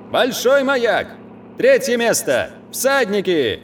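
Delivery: high, ringing announcement; town crier. Acted. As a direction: call it out like a herald. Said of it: "зычно объявляет".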